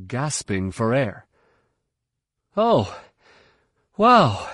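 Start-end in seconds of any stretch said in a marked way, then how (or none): 2.6-4.5 high, loud burst of wonder; amazed outburst. A narrator's reading. Pupil snaps out of trance, amazed.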